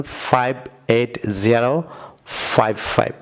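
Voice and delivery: slow American drill, জিরো not ও, ফাইভ ফাইভ; American number style. Shown as a demonstration. Teacher showing viewers the American way: জিরো and ফাইভ ফাইভ. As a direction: say ফাইভ এইট জিরো ফাইভ ফাইভ with "জিরো" and each ফাইভ said separately. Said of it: "American স্টাইলে বলবেন".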